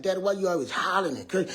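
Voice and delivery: fast, high-pitched protest; protesting kid. Retold or imitated. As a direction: imitate a child calling out a loud parent. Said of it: "My kids like".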